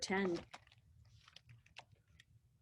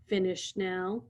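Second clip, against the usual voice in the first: polite; 2 semitones lower, 4 dB quieter than usual. Acted. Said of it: "he quite politely asked".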